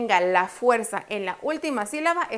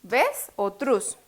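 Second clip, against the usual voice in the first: slow "a, ves o truz", each syllable set apart; syllables offered separately; slower than usual. Shown as a demonstration. Teacher quizzes students on the stressed syllable, syllables spoken separately. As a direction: pause between "a", "ves" and "truz" as choices. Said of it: "¿En qué sílaba va la fuerza?".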